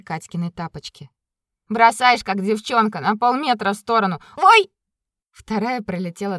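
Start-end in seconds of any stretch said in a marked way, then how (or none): 1.7-4.7 teasing. Acted. Stepan teases, gets hit.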